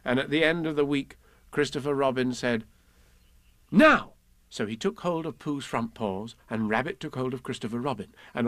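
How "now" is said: sharp high shout to pull; loud call. Acted. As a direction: call the heave, all together. Christopher Robin starts the pull.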